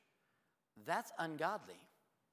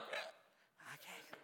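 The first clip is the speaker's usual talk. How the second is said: reluctant okay; 3 semitones higher, 8 dB quieter than usual. Retold or imitated. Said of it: "And I'm like".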